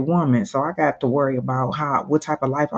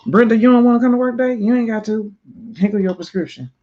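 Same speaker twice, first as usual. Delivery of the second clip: mock sweet-talk; 7 semitones higher, 5 dB louder, faster than usual. Mocking how they lure people.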